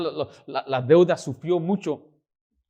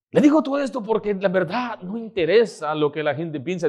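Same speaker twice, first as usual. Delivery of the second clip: normal talking voice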